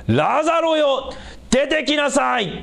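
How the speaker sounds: high, slow, ringing call to the dead; loud call. Retold or imitated. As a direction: call him out of the tomb, loud and drawn out. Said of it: "と大声で言いました". (墓に向かって大声でゆっくり呼びかける)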